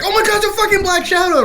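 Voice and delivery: high, fast mock shriek; hammed-up panic, words rushed out; acting scared. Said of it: "acting all scared and shit".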